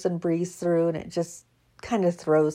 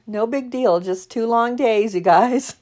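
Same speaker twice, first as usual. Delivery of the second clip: playful fake impatience, a bit higher; mock complaint; 4 semitones higher than usual. Joking to viewers about waiting until Sunday, mock impatience. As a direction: tease the long wait, then laugh. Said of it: "I'm kidding".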